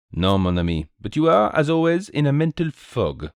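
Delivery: put-on high, lilting French-accented sleuth; Belgian detective, teasing. Detective answers his bewildered companion, teasing.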